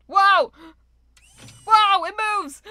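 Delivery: amazed loud shout; wow, it really moves; excited. Real, not acted. Amazed at the machine moving.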